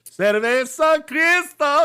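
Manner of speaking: high, slow announcer-style sing-song; ad jingle voice. Retold or imitated. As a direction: belt out the beer brand name. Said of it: "he goes".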